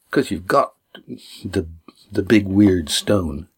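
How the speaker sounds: lightly voiced companion, pressing questions; character voice.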